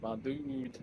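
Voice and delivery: squeaky high "my dude"; high silly voice. Pretend. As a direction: pitch it way up, goofy. Echoing friend in silly voice.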